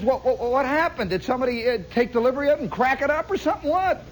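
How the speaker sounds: high, fast bewildered dad; flustered father. Retold or imitated. Father baffled by his son's new car, high and rushed. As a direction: tumble out the questions in a rush.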